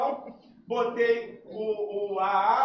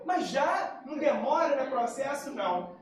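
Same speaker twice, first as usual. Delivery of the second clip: surprised disbelief; 3 semitones higher than usual. Retold or imitated. New father hearing he can fetch the baby now, stunned. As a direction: jump way up in pitch on the first words, then settle. Shocked at sudden custody news.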